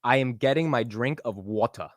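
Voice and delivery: Texan-sounding line, British "water" at the end. Shown as a demonstration. Host copies the sentence unraised, Texan-sounding British attempt. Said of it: "the rest of it sounds like I'm from Texas".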